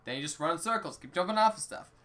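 put-on rambling old Link in a jokey accent. Link telling his troubles to a support group, put-on accent. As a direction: play an aggrieved eighty-year-old with a put-on accent. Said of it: "I'm gonna keep the accent now".

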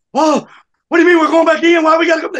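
loud, high mock outcry; hammed-up chorus of alarmed objection; protesting inmates. Inmates learning they must go back in, protesting.

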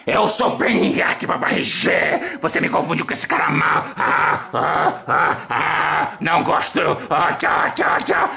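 low, grumpy villain voice; a sulky bad guy sulking off; Brainiac voice. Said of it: "que é o Brainiac". (voz de vilão emburrado)

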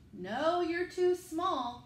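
slow, firm chorus voice; lightly voiced zoo animals saying no; creatures refusing.

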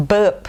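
"burp" with a silent R; non-rhotic pronunciation. Shown as a demonstration. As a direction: leave the R out of "burp". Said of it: "กี่ก็จะไม่ออกเสียงตัว R".

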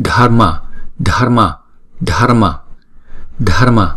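"dharma" with a light tongue tap for r; "Dharma" with a flick of the tongue; flapped r in dharma. Shown as a demonstration. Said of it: "đánh lưỡi thôi".

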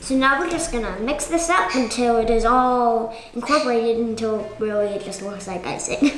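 hiccups. Real, not acted. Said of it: "I have the hiccups right now".

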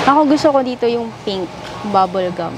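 normal talking voice

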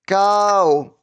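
"cow" split into syllables like a robot; robotic syllable-by-syllable "cow". Shown as a demonstration. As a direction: sound out "cow" mechanically. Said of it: "як робот по складах".

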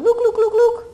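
high, repeated name call; chanting Luke high and fast; awkward repeated name. Shown as a demonstration. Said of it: "'cause that's just awkward".

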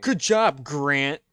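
sarcastic. Real, not acted. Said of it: "Stop saying my name like so".

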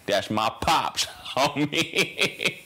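lightly voiced street homie. Telling of a famous dad in a light CJ impression. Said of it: "he would, you know".

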